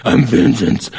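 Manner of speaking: mock superhero growl; Batman. Preacher mocking sin-policing to his flock, Batman voice. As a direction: rasp it out as a comic vigilante. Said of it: "like, be the Batman of sin".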